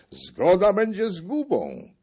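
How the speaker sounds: shouted warning. A narrator's reading. Buchman shouts against agreement, high and loud. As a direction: shout it across the hall. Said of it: "Buchman wołał".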